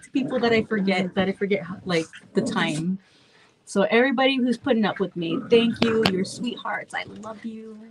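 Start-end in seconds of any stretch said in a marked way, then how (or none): 6.1-7.8 whispered thanks. Real, not acted. Thanking viewers warmly.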